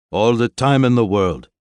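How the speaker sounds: loud, cocky and carefree; confidently unbothered; breezy. Acted. Sushi breezy reassurance.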